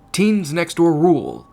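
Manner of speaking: loud, slow rallying cry; exclaimed. A narrator's reading. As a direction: proclaim the team motto. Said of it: "they all exclaimed".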